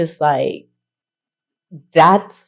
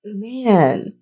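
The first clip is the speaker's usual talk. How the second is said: choked up. Real, not acted. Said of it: "Sorry, I didn't think I'd get choked up".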